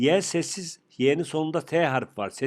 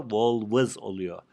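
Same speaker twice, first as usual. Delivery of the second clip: slow teaching; 3 semitones lower, much slower than usual. Shown as a demonstration. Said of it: "teacher models plural slowly".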